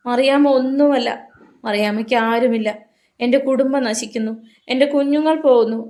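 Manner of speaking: high, loud, broken sobbing words; a worn-out mother crying that she has no one; sobbing lament. A narrator's reading. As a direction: let the rage collapse into sobs. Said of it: "ആക്രോശം തേങ്ങലായി വീണു".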